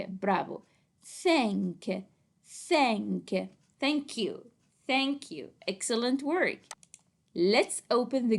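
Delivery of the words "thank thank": reading out. Shown as a demonstration. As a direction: Thank stretched, with a separate released k. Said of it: "Let's read it together".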